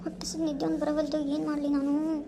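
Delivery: soft, plaintive self-talk; miserable whine. Acted. Hungry wife unable to sleep, quiet whining. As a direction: moan quietly to yourself.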